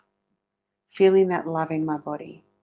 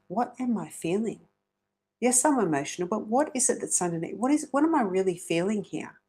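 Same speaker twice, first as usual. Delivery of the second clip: gentle self-questioning; 3 semitones higher than usual. Shown as a demonstration. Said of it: "to really ask yourself".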